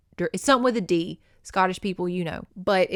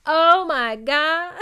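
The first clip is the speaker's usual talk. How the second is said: stunned gasp; 8 semitones higher, 6 dB louder, much slower than usual. Retold or imitated. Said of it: "you're just like".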